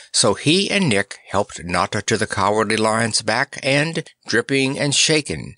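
plain reading voice

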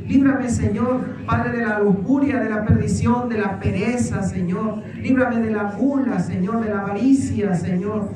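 fervent led prayer with rising pleas; earnest preacher's prayer over the people; leading prayer. Acted. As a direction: pray aloud for the congregation, pressing each petition. Leads congregation in prayer.

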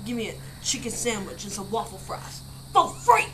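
lightly imitated fast-food customer; customer in a video. Retelling a video order to friends, imitated customer. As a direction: put on the man ordering, with a timbre shift. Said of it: "The guy is like".

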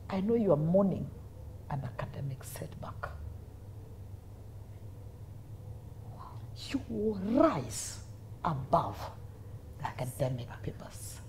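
soft whispery imitation of a preacher; murmured retold blessing; hushed prophecy. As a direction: promise it quietly, with long solemn pauses.

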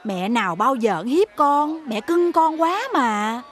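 slow, drawn-out coaxing; doting mother. Acted. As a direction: soothe a sulking child, stretching the words. Mother coaxing her sulking son.

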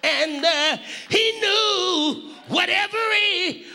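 sung-out, rising preacher's cadence over the organ; fervent preaching climax with musical intonation; whooping preacher. Acted.

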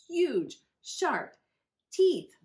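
each word punched high and loud; dramatic emphasis. A narrator's reading. Reader building suspense for children, punching each word. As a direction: linger on huge, sharp, teeth for effect.

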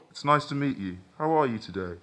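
cheerful programmed android greeting; robotic voice. Acted. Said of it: "the robotic modulated voice asked".

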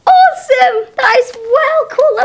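loud, high showman's delight; excited. Acted. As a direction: gush like a stage magician. Magician's showy excitement.

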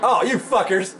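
high, exasperated curse; indignant yell. Real, not acted. Player is ambushed in game, indignant high yell. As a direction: curse out the attackers.

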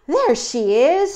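high, loud, drawn-out discovery; thrilled storybook little bird; excited baby bird. Acted. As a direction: cry out on spotting someone dear. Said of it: "he said".

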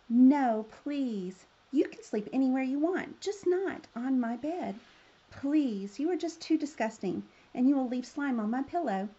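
storybook plea, starting loud on the refusal; pleading. Acted. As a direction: beg him to stay off the bed. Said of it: "the princess pleaded and cried".

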